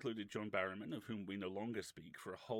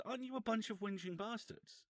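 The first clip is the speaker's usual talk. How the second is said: very high retold question, rising at the end; high-pitched, rising challenge; direct mock accusation; 13 semitones higher than usual. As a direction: imitate a boss challenging someone to his face. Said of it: "Turns back to the guy".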